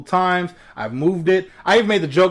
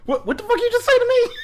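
much higher mock Karen shout; Karen outrage. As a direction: explode like an offended Karen. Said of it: "the Karen blood was coming".

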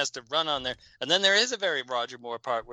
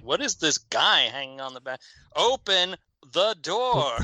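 mock train lady; 3 semitones higher, slower than usual. Train lady voiced in retold scene.

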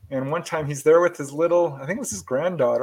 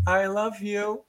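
put-on high, softer little girl's voice; sweet little voice; 7 semitones higher, 4 dB quieter, slower than usual. Little granddaughter tells the lights she loves them, soft. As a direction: say it small and sweet like a child. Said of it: "in her sweet little voice".

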